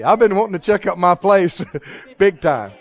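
chuckling through a cheerful joke; laughing. Acted. Preacher jokes to the church about dying, laughing. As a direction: laugh it out, delighted.

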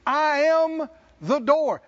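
high ringing pulpit line; slow proclamation. Acted. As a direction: call it out slowly to the hall. Preacher raising voice.

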